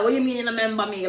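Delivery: fast, mildly irritated imitation in patois; getting pissed. Stranger insisting he is known, mildly pissed. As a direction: imitate a man losing patience, quickly. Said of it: "getting pissed".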